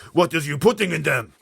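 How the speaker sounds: loud booming giant insult; shouting giant. Acted. Blood Bottler insulting the BFG, shouting. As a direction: bellow the insults.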